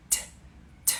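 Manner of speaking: t as a soft breathy puff off the teeth, no ch; puffed English t. Shown as a demonstration. Teacher showing the t of to for a viewer. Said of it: "Dá um soprinho com a língua aqui".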